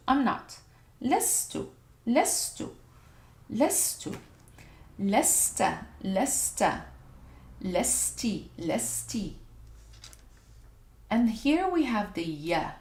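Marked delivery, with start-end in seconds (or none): 1.0-4.2 lestu ripetuto con tono che sale; drilling lestu. Shown as a demonstration. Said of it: "So you would say lestu". 5.0-6.9 lesta ripetuto chiaro; drilling lesta. Shown as a demonstration. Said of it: "So you would say lestu". 7.6-9.3 lesti ripetuto chiaro; drilling lesti. Shown as a demonstration. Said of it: "So you would say lestu".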